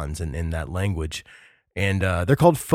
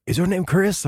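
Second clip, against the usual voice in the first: higher-pitched, badly faked Peruvian accent; bad Lima accent; 9 semitones higher than usual. Guard asking the late-night arrival his name, badly faked Lima accent. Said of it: "not a good, like, person from Lima, like, accent".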